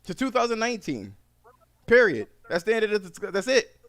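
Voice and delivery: loud, high furious yell. Retold or imitated. Driver yelling at the phone operator, furious. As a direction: shout him down, done with it. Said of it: "I said".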